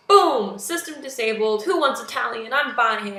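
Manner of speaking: imitated burst of triumph, loud at the start; mock victorious outburst; retold outburst. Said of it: "has an outburst".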